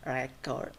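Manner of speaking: Record as noun, REC-ord; first-syllable stress. Shown as a demonstration. Teacher repeating the noun, Record stressed REC-ord. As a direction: lean on REC in Record, falling after. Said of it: "that is a noun".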